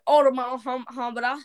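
garbled fake British babble; put-on British spluttering; mock British accent. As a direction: burst out, then stumble through British gibberish. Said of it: "At one point, I just went".

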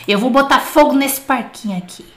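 booming right into the mic; too loud. Real, not acted. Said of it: "Tô falando muito alto". (alto demais, perto do microfone)

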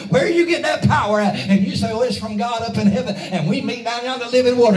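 urgent, rousing pulpit cadence; fervent preaching. Real, not acted. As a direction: preach it up high with rising fervor. Preaches in rising fervor.

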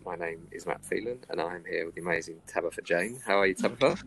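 muffled behind a mask; through face mask. Real, not acted. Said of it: "Can you hear me okay through my mask?".

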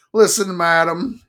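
loud, high curt snap; snapped. Acted. Drunk Life man snapping at the clinging woman, loud and curt. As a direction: cut her off sharply. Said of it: "he snapped".

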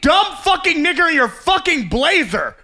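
slow, yelling road rage; angry driver yell. Pretend.

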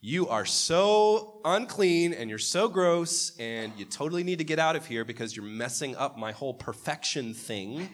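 mocking a disgusted God. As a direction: sneer it out like a fussy deity who can't bear you. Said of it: "he goes".

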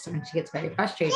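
usual speaking voice

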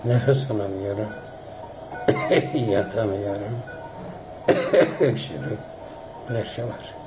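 wheezy, short of breath, coughing; wheezy voice struggling for air. Real, not acted. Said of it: "zor nefes aldığı hasta yatağından". (hırıltılı, nefes nefese ses)

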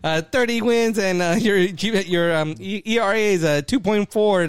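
lightly voiced movie character; imitating a movie character.

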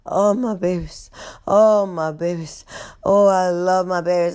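lightly acted doting old woman; out of breath. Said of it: "she is out of breath".

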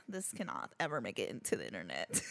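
quiet. Retold or imitated. Horrified reaction to photos.

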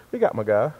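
hushed but forceful hype; stage whisper intro; whisper yelling. Real, not acted. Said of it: "Why are you whispering at us right now?".

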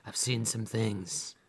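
adventurer back from the desert, hammed-up weariness; mock world-weary adventurer. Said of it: "they come back and they're like".

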